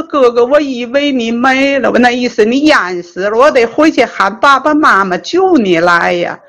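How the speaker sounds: put-on childish teary plea. Child's teary explanation to brother.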